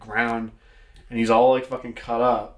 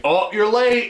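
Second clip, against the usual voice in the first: high, loud, drawn-out mock accusation; joking outcry, well above usual pitch; teasing mock complaint; 9 semitones higher, 5 dB louder, slower than usual. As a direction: tease with an exaggerated high call. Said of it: "No, I'm just kidding".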